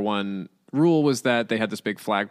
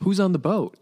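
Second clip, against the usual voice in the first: high, loud, acted-out curiosity; eager question; 10 semitones higher, 5 dB louder than usual. Family asks the envoy about the owners, high and eager. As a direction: imitate an excited, burning question.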